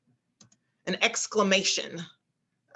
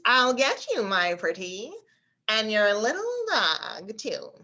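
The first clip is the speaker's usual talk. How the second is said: nasal witch; 2 semitones higher than usual. Shown as a demonstration. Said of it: "since we're exaggerating it".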